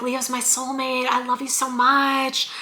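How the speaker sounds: soft, slow, swooning quote; mock lovestruck. Imitating a smitten admirer gushing to Leo, soft and slow. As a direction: breathe it out like a smitten lover. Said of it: "they're coming in being like".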